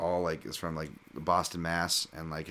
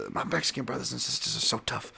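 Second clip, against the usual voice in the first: impression of a boxing promoter, raised pitch; Don King; 6 semitones higher than usual. Commentator quoting Don King on Mexican toughness, impression. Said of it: "As Don King would say".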